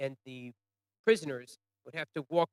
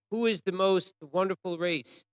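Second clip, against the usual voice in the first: higher, louder retold question; raised voice quizzing prisoners; guards calling out; 5 semitones higher, 5 dB louder than usual. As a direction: call it out like a guard. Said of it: "the guards would call out".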